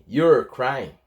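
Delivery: YOU'RE in one syllable; fuse YOU and ARE into YOU'RE; contracted form. Shown as a demonstration. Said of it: "are fica apóstrofo R E".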